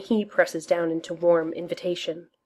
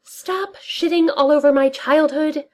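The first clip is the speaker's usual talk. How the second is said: hissing; 10 semitones higher, 5 dB louder than usual. Acted. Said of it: "Darcy hisses".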